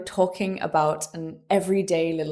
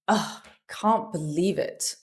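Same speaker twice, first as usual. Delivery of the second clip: weary, softer "ugh" of frustration; exasperated disbelief; 4 dB quieter than usual. Shown as a demonstration. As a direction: groan it out, fed up. Train delayed again, exasperated reaction.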